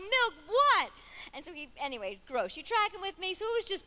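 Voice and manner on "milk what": loud, high-pitched mock shock; appalled disbelief. Patient questioning her doctor's order, mock appalled. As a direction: cry out in comic disbelief.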